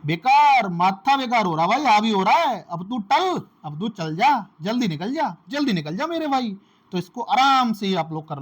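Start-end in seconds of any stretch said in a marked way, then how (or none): 0.0-6.6 higher, louder, fed-up man chasing someone away; exasperated yell. Retold or imitated. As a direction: blow up and shout him out the door. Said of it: "आप कैसे याद रखोगे?". (खीझकर ऊँची, ज़ोरदार आवाज़ में भगाना)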